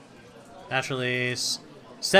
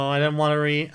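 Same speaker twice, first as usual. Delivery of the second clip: louder, higher whiny protest; frustrated whine; 4 semitones higher, 7 dB louder than usual. Real, not acted. Gamer whining at the game's endless reading. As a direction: whine that you don't want to read.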